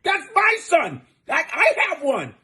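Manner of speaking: high, shouting mock dad showing off his son; mock proud father. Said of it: "He's like".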